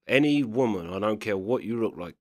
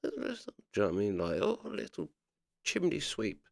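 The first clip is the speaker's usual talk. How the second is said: mocking posh voice; 7 dB quieter than usual. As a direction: lightly sneer like a snob talking down. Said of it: "like posh people go".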